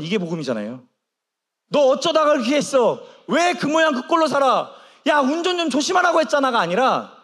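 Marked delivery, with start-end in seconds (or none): 1.7-6.6 higher-pitched, mildly acted telling-off; mock scolding. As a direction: play a reproachful parent, pitched up. Acted scolding the father didn't give.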